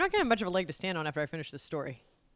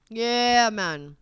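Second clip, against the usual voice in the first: laid-back Jamaican; 4 dB louder than usual. Retold or imitated. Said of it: "the Jamaicans are always like".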